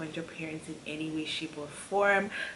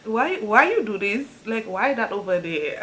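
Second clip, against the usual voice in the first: louder, laughing mock questions; giggly stoned questions; 3 semitones higher, 5 dB louder than usual. Stoned daughter asks dad questions, giggling. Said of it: "asking him stupid questions".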